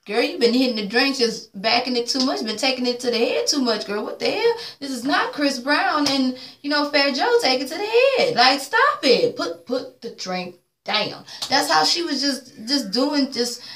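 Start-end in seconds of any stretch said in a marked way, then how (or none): 0.1-11.2 higher, scolding imitation of a friend; imitating Yandy. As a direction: scold her like a fed-up friend. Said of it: "even Yandy like".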